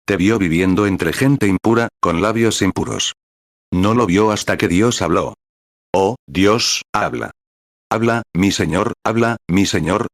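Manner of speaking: earnest spoken prayer to the Father. Acted. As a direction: pray aloud for the ministers, steady and sincere. Prays aloud over the congregation. (oración sincera en voz alta)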